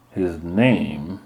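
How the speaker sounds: slow, icy mother's reply; said slowly. Acted. Mother correcting her son, slow and icy. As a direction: draw it out coldly. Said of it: "Mama said slowly".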